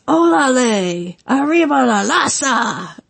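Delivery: slow, lightly voiced Conan chant; imitating Conan. Retelling Conan's entrance, a slow lightly mimicked chant. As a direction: sing out his entrance line slowly, lightly mimicked. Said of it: "he would come out and do that".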